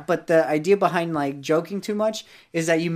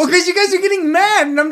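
laughing, higher and louder; 13 semitones higher, 7 dB louder than usual. Real, not acted. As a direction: defend yourself through laughter. Laughing defence in argument.

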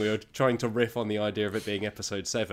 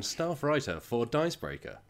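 toy robot voice; 4 semitones higher than usual. Acted. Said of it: "You said that like a little robot".

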